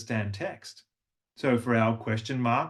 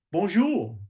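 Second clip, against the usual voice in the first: "Bonjour" lifted high; upward; 6 semitones higher, 3 dB louder than usual. Shown as a demonstration. French greeting said with upward tone. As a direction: raise "Bonjour" up. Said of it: "That upward movement".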